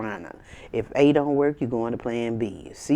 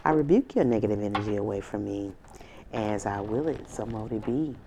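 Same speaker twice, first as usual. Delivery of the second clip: incantation; 2 semitones lower than usual. Real, not acted. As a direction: cast it out like a ritual chant. Repeated banishing incantation, three times.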